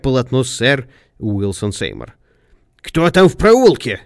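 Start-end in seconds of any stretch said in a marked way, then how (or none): 2.8-4.0 high, loud, drawn-out cry; alarmed shout. A narrator's reading. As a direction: shout the question down an alley. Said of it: "крикнул он".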